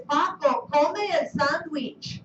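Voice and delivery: Paco come el sandwich spoken a little slowly; model command. Shown as a demonstration. Teacher quoting command to class, slightly slowed. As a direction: repeat the model command carefully. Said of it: "Our command here is".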